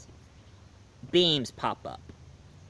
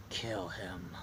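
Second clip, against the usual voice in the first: dying plea; 9 semitones lower, 15 dB quieter than usual. Retold or imitated. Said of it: "And Frankenstein says".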